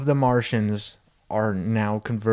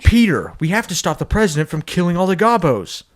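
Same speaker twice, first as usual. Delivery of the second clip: raised, emphatic cartoon appeal; urgent plea; 5 semitones higher, 4 dB louder than usual. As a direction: plead urgently in mock alarm. Grinch urgently pleading with Peter.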